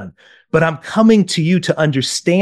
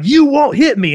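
much higher, indignant retort; mock dad's yell; 10 semitones higher, 3 dB louder than usual. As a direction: imitate a dad snapping at his child. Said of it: "he starts yelling".

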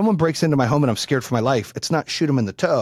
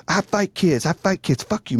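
higher-pitched imitation of an angry mom; mock yelling; 4 semitones higher than usual. Mom held back by the cop, mock yelling. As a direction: chant her threat in mock fury.

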